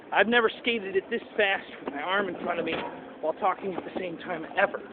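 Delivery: talking while winded from skating; breathless after a hard push; out of breath. Real, not acted. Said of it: "It's hard to talk when you're out of breath".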